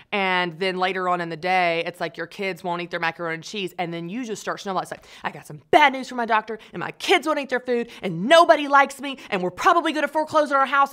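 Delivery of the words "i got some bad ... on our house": rising, louder, rushed panic; panicked spiral. Retold or imitated. Speaker voicing her own spiraling worries, mock panic. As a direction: spill the worries faster and faster.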